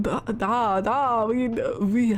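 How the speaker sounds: trying on a mock Russian accent; testing out a Russian accent. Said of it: "What is a Russian accent?".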